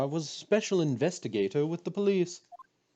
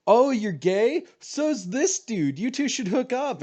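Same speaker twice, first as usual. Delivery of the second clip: TikTok sound voice; 9 semitones higher, 3 dB louder, slower than usual. Retold or imitated. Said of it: "I love that TikTok sound".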